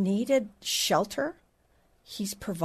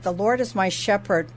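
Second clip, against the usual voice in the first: put-on kids reciting. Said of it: "it was like".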